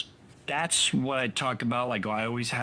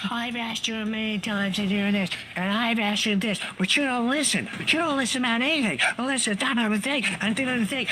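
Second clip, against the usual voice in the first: imitating angry wife; 10 semitones higher, faster than usual. Wife's angry quote voiced.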